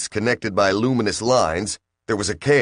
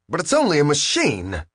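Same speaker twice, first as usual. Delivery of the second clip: cried aloud; 7 semitones higher than usual. A narrator's reading. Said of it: "Dirk cried aloud".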